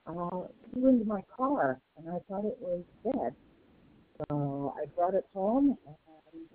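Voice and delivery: distant, muffled speakerphone sound; phone speaker. Real, not acted. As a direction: voice coming through a speakerphone. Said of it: "it's a little hard to hear you".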